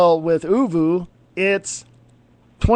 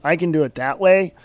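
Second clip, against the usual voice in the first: usual speaking voice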